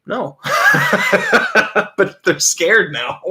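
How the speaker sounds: high cackling laughter; laughing. Real, not acted. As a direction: laugh through the words. Cracking up at own story.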